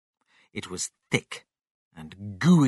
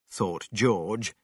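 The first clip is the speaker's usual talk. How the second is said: plain reading voice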